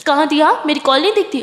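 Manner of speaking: put-on loud hurt complaint to a girlfriend who missed her calls; upset yell. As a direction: snap at her for missing the calls. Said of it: "मेरे बच्चा कितना चिल्लाता है".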